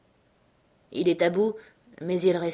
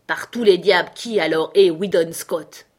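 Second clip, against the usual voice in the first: loud, emphatic exclamation; exasperated demand; 8 dB louder than usual. A narrator's reading. Tim Keenan asking the crowd who Scott is, exclaiming. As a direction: burst out with the question.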